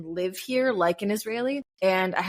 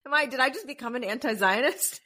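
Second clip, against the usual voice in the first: higher, mock-horrified self question; a hint of playful panic; lightly voiced fake shock; mock alarm; 5 semitones higher than usual. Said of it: "I was like".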